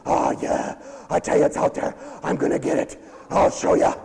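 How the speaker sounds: whispered, sly; whispered defiance. Pretend. Pastor voicing a stubborn sinner hunting joy elsewhere, whispered. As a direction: hiss it like a secret plan.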